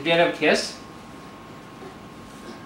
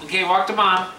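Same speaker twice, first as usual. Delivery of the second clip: laughing; 6 semitones higher, 5 dB louder than usual. Real, not acted. Mother laughing while coaxing baby.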